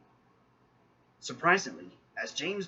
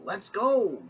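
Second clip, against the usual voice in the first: eager call pushed louder; louder excited; 8 semitones higher, 6 dB louder than usual. Acted. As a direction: repeat it louder and more thrilled. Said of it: "James puffed excitedly".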